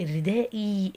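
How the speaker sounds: "الرداء اي" with the last kasra held as ee; lengthened final vowel. Shown as a demonstration. Teacher asking what happened, "الرداء اي" with its ending lengthened. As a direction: let "الرداء اي" end on a clear long ee. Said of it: "حدث عندك اشباع".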